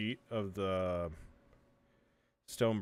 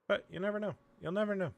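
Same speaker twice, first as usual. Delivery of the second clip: sing-song; 11 semitones higher, much faster than usual. Real, not acted. High sing-song musing.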